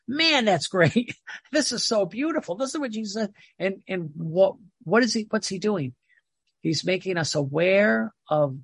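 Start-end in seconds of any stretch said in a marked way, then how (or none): 0.1-3.3 delighted reader. Retold or imitated. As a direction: savour each word like a joyful discovery. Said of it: "you go".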